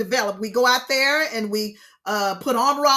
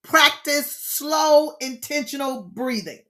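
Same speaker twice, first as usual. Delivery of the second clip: slow demo; slower than usual. Shown as a demonstration. Teacher modelling slow breathing for the group, drawn out. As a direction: stretch out the word slow very slowly. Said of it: "Number two".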